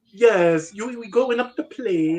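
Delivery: mock British voice for a quote; imitated British accent. Quoting a British actor to friends, in a mock British accent. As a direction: put on a British accent, lightly. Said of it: "He's trying to act British".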